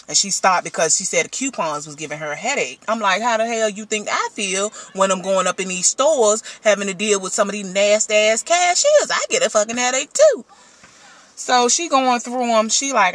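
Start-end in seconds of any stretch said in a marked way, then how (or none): 3.2-10.4 rising exasperation, ending in a yelp; exasperated rant. Retold or imitated. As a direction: vent in disbelief. Ranting back at daughter.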